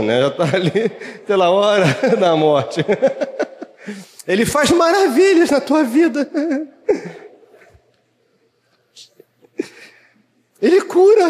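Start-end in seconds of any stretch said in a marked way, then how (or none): 4.3-11.2 much higher, laughing fake-cheery pitch; forced cheerful. Mocking a troubled believer evangelizing with a forced laughing smile. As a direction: sell it with a rehearsed grin. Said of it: "tem que dar uma risadinha pra evangelizar".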